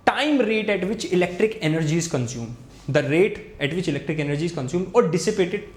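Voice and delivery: reading out a definition slowly; slow note-taking pace; slow dictation. Shown as a demonstration. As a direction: dictate word by word so they can write. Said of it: "slow dictation of definition".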